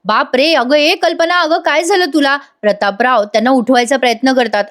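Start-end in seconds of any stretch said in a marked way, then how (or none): 0.0-2.4 acted alarm. Prataprao finds Kalpana fainted, acted alarm. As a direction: imitate shock at someone collapsing. Husband sees wife collapsed.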